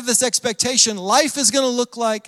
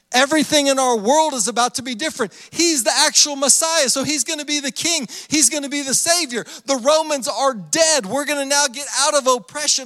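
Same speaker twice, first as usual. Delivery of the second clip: higher-pitched, mildly hammed-up crowd excitement; excited expectation; 5 semitones higher than usual. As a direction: voice a crowd's rising hopes.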